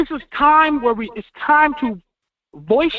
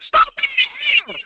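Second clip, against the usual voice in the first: shout at hater; 11 semitones higher than usual. Real, not acted. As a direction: bark it across the room at him. Yelling at chat member.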